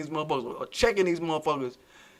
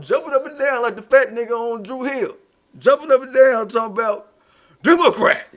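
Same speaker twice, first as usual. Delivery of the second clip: mock excited yelling; 5 semitones higher, 6 dB louder than usual. Mocking someone jumping at conference.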